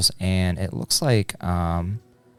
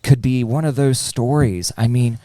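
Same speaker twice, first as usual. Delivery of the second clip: coaxing plea; 3 semitones higher than usual. Acted. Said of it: "I said".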